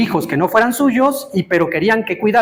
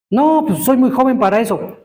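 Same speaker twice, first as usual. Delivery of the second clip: higher-pitched, lightly acted youthful protest; young man's excuse; 5 semitones higher than usual. Young bachelor dodging the marriage question, mock protesting.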